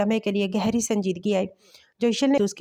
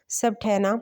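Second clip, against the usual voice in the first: breathy whisper, no voice; slower than usual. Acted. Mother gently asks her worried son, whispering. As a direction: ask it under your breath.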